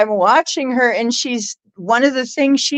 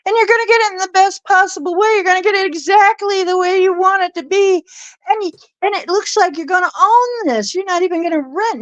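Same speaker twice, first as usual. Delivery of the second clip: 1 quoting the reader; 9 semitones higher, faster than usual. Retold or imitated. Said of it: "And she says".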